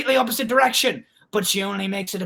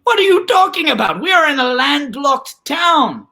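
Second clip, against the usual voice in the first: incredulous scoffing; 3 semitones higher than usual. Acted. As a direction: scoff at a ridiculous idea, easing off. Acted scoffing reply in a story.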